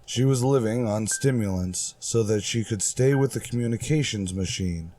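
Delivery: measured radio drama narration, unhurried in places; story narration. A narrator's reading. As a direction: tell it like an old sci-fi radio serial.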